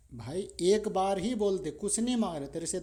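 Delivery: pleading guru, voice lifted; coaxing plea. Acted. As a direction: push him to say it, pleading loud. Guru coaxing the stubborn brother.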